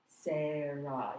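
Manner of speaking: Sarah stretched into two clear vowels; drawn-out syllables. Shown as a demonstration. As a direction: open up both vowels of Sarah, slowly. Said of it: "You can see my vowel, my mouth opens".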